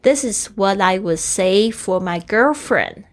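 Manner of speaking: put-on This is what I would say for my girlfriend read out slowly, word by word; slow model reading. Shown as a demonstration. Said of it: "所以他用say for". (慢速示范朗读)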